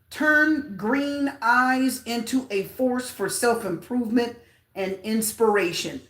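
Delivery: slow read-out of the card meaning; reading card text. Real, not acted. Tarot reader reading the card meaning aloud slowly.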